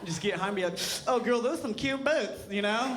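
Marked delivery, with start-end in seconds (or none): 1.1-2.5 sassy. Pretend. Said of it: "like, sassy, you know, fashion conscious person".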